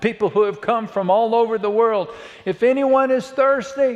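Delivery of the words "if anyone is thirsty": mock, high, raised, widely projected yell. Speaker acts out him calling to a large crowd at the event: imagined yell to a crowd. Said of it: "can you not just imagine him yelling".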